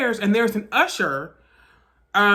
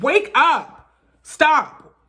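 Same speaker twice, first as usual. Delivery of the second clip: higher, urgent retold shout; mildly raised voice, urgent command; 6 semitones higher, 4 dB louder, much slower than usual. Woman trying to rouse her unresponsive friend, urgent retold shout.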